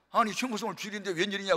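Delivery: mild surprise, a bit fast; surprised. Retold or imitated. Mentor surprised to see Choi on the Sunday, mild surprise. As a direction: sound puzzled at the visit. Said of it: "깜짝 놀라면서".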